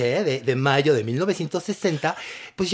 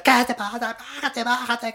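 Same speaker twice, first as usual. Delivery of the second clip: mock yell; 8 semitones higher than usual. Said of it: "les empezó a gritar".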